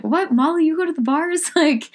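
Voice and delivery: high, disbelieving gasp of surprise; shocked listener. Retold or imitated. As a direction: play a stunned fan hearing gossip. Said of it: "are listening are like".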